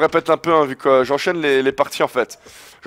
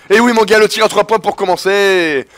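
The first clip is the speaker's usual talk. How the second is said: loud, higher triumphant cheer; gloating shout; 4 semitones higher, 4 dB louder than usual. Real, not acted. Gamer crowing to his opponent, triumphant. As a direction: crow over the three-pointer.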